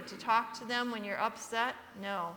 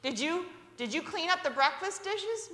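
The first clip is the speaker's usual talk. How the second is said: mother's voice; 6 semitones higher than usual. Retold or imitated. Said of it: "My mother would come out and say".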